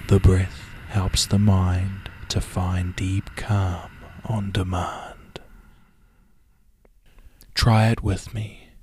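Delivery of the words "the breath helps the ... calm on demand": calming mantra. Shown as a demonstration. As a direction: say the calm mantra evenly, letting it fade. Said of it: "as I guide you with the following words".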